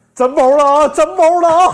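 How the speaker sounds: put-on big roar. Recounting how someone stood in front of the speaker and roared: retelling a loud roar. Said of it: "冲我大吼一声".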